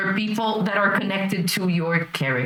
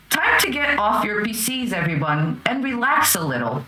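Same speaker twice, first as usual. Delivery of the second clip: lightly voiced robot announcement; an understated robotic alarm voice. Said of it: "you hear this robotic voice say".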